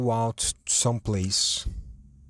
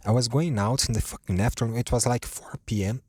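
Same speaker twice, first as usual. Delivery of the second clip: voice giving out. Real, not acted. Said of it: "my voice just fucking went to fucking shit".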